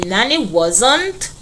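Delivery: Nanny wasn't drawn out slowly; slow classroom read-aloud; slow, deliberate reading. Shown as a demonstration. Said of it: "The answer is at C".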